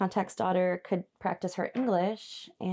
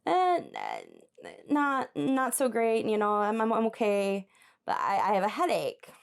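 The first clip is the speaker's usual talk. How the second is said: mock sickly reply. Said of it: "you are gonna respond in French".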